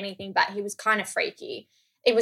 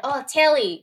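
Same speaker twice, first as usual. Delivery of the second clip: slightly raised, higher calling voice; imitated name call; 5 semitones higher, 4 dB louder, slower than usual. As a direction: mimic a barista calling an order. Barista calling out the order name.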